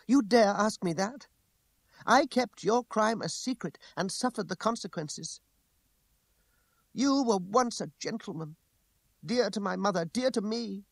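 high, impassioned woman's voice; outraged reproach. A narrator's reading. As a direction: accuse him with wounded indignation. Continues her outraged accusation.

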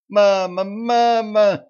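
high, loud terrified shriek for her mother; shrieking in terror. A narrator's reading. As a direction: scream for mama in panic. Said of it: "визжала Вера". (визг в ужасе)

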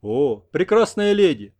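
slow, bored, dutiful exclamation. A narrator's reading. Interpreter translating John's rapture, bored and slow. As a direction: rattle off the compliment without interest. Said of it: "скучно сказал переводчик".

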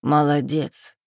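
mild grandmotherly approval; a touch of pride; approving praise. A narrator's reading. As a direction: praise her contentedly. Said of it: "похвалила бабушка".

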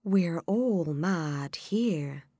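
slow, drawn-out cat voice; Cheshire Cat voice. Acted. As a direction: say it slowly like a sly cat. Cat speaks.

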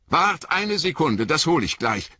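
high, eager call to Frodo. Acted. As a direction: call out as you run off. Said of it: "rief Sam".

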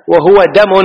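"دم" with a single light m; light consonants. Shown as a demonstration. Teacher showing students the word, light "دم". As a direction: say "دم" without doubling the d or m. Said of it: "بالتخفيف أيضًا".

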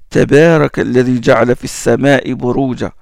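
recited verse, fast and even; Quran recitation. Acted. Teacher recites a verse to show the thin ba.

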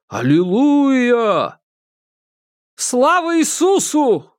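high ecstatic shout of praise; crowd shouting. A narrator's reading. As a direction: cry out in rapture. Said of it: "Толпа закричала". (ликующий крик толпы)

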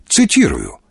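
low, mildly stern correction. A narrator's reading. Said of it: "строго пояснил Аркадий". (строго)

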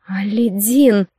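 slow, despairing moan of the name; hopeless moan. A narrator's reading. Наргиз moans to Aledin, hopeless. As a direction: let the name sink in despair. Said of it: "безнадёжно простонала Наргиз".

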